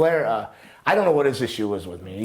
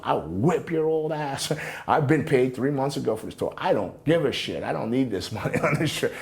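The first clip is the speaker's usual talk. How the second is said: retold threat; 5 semitones higher than usual. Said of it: "And I was hot".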